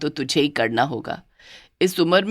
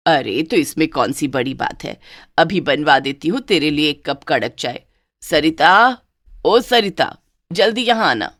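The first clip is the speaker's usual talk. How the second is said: fond mother-in-law; 2 semitones lower than usual. Acted.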